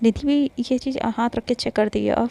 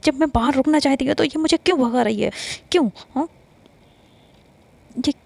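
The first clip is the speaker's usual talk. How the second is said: higher, fuming complaint about being ignored; angry rant; 3 semitones higher than usual. Acted. Yash fumes to herself on the way home, angry and higher. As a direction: vent like a jealous girl who's been snubbed. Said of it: "बस गुस्से में ही".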